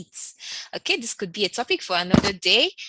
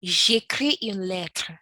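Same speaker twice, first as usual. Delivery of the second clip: slow, careful French answer; slow teacher demo; slow model answer; slower than usual. Shown as a demonstration. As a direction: read the answer slowly. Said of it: "What are you writing".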